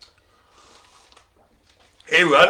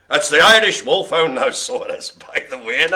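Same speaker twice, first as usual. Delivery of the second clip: mock Irish; 4 dB louder than usual.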